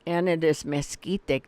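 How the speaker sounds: mezquite said the Spanish way, z sounded. Shown as a demonstration. Insisting on the Spanish mezquite. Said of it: "It's not mesquite to me".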